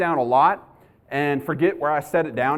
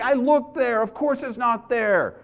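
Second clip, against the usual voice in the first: higher-pitched exasperated retort; freaking out; 5 semitones higher, slower than usual. Retold or imitated. Husband insisting to wife he already looked, freaking out. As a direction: protest in a mock panic, pitched up. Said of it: "I'm, like, freaking out".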